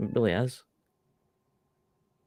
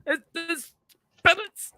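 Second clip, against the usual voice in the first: spooky voice; 7 dB louder, slower than usual. Pretend. Spooky joke about spirits.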